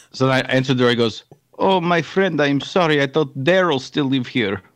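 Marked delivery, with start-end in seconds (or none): 1.6-4.6 put-on Bosnian accent. Visitor apologizing at the door for seeking Daryl, Bosnian accent. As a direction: play a Bosnian stranger with a thick accent. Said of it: "do a Bosnian accent".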